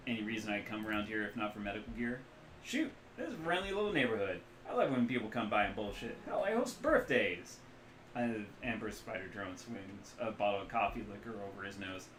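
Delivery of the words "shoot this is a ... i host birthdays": put-on Midwestern accent. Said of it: "loose Midwestern accent".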